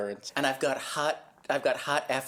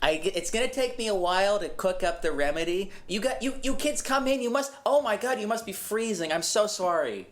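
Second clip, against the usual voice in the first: put-on Massachusetts accent; 5 semitones higher than usual. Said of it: "You sound like you're from Massachusetts".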